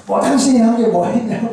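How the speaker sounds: mildly combative mock-quarrel retort; defiant challenge. A spouse fighting at home, mildly defiant comeback. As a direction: challenge a partner as in a household spat. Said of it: "막 대들듯이 막".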